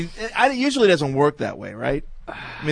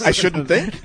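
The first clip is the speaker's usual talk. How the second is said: Jewish voice. Pretend. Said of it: "say it in your Jewish voice".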